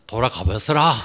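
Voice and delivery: light Jeolla accent imitation; Jeolla dialect. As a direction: quote it with a touch of Jeolla lilt. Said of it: "전라도 사람들은".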